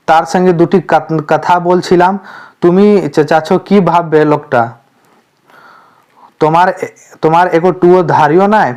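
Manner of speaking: a hint of the wife snapping back in Bengali; angry wife in Bengali. Wife scolding her shouting husband in front of guests, mock angry. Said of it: "निर्मल दास पर चिल्लाने लगती है".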